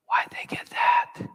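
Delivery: slow, hushed comparison voice; whisper. Retold or imitated. Pastor voicing the comparison voice to the church, hushed. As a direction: breathe it like a nagging inner voice. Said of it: "It just whispers".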